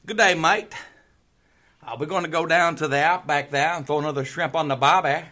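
loud, hammed-up Australian greeting and patter; Australian accent. Shown as a demonstration. Co-host asked for another voice, hammed-up Australian accent. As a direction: put on a broad mock Australian accent. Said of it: "Do an Australian accent".

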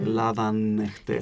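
Ελλάδαν εχτες slowly, the n sounded; Cypriot linking n. Shown as a demonstration. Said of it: "μόνο όταν ακολουθεί φωνή εν το προφέρουμε". (αργή επίδειξη του νι στο Ελλάδαν εχτες)

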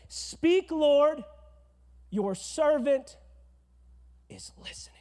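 loud high start fading to a whisper; emphatic then whispered prayer. Shown as a demonstration. Pastor showing the congregation how to pray, loud fading to whisper. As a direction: call it out then hush to listening. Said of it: "That's all I want you to say".

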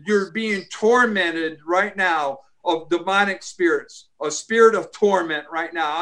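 commanding prayer voice; deliverance prayer. Acted. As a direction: rebuke spirits in prayer, firmly.

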